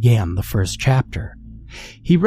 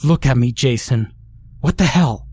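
angry; 2 semitones higher than usual. Acted. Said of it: "Melissa lost her temper".

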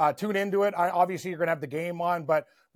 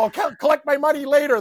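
raised, louder angry exit line; mock storm-off shout; 8 semitones higher, 7 dB louder than usual. Host quitting the bar mid-giveaway, half-shouted. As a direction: throw the mic down and yell it.

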